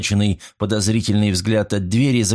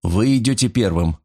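patient. Acted. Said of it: "терпеливо повторил Старпом".

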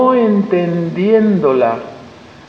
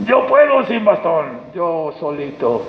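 stubborn boast. Retold or imitated. Voices a stubborn person.

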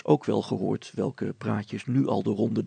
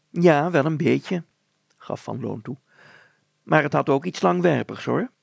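higher, louder, deliberate village grocer; thoughtful grocer; 4 semitones higher, 7 dB louder than usual. Acted. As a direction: grocer thinking it over aloud. Grocer concedes.

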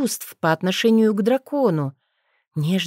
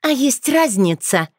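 sarcastic; 6 semitones higher, 3 dB louder than usual. Acted. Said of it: "съязвила Розали".

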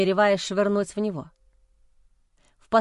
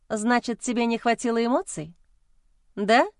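snide smirk; 2 semitones higher than usual. Acted. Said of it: "Ехидно усмехнулась я".

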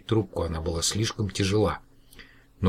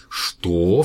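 loud startled what; exclaiming; 5 dB louder than usual. Acted. Professor hears the caller is in his study, startled. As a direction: blurt it out in shock. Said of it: "вскричал профессор".

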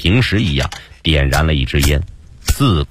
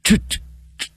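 fierce hushed cursing; 8 semitones higher than usual. A narrator's reading. Doctor reacts to news of a killing, fierce hushed cursing. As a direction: curse them under your breath, dragging out the words. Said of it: "胡博士低声狠狠地骂道".

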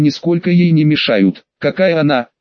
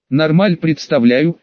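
gurgling tentacle alien. Acted. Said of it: "решительно пробулькал в ответ головастик".

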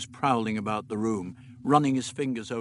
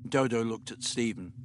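ordinary delivery, nothing marked

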